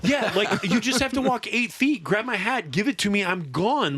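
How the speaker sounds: laughing through a high pleading retelling. Real, not acted. Laughing while retelling the plea.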